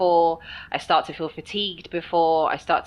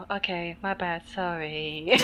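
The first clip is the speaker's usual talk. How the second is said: sheepish apology; 6 dB quieter, slower than usual. Retold or imitated. Caught out by her partner's teasing, hammed-up sheepish apology. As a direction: shrink into a small, hammed-up apology.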